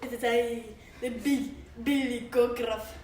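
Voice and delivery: big goat answering the troll fearlessly. Acted. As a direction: announce yourself boldly. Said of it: "who had an ugly hoarse voice".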